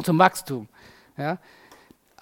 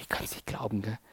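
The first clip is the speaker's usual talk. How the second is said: low, hushed exasperation; Jesus, mock disbelief; 7 semitones lower, 15 dB quieter than usual. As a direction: mutter it low and soft, as if let down. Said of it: "Könnt ihr euch Jesus vorstellen?".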